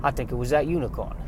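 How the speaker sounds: a soft, lightly Southern farm wife voice. Acted. Farm wife telling her husband about the unicorn, softly, in a light Southern accent. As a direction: hush it like a worried country wife, lightly Southern. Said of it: "has a southern bent".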